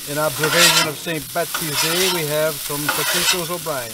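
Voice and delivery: a mild, halting attempt at an Irish accent. Cook presenting potatoes O'Brien for Saint Betsy's Day, weak mock Irish accent. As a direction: give it a shot in a weak Irish brogue. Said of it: "I don't think that was a very good accent".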